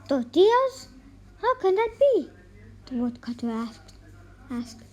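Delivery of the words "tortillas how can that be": high, loud disbelieving cry; can't believe his ears; astonished. Acted. Woodcutter asks his wife in loud disbelief. Husband baffled by tortilla rain.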